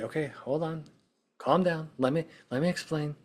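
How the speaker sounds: pacifying tone. Retold or imitated. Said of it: "more of a pacification".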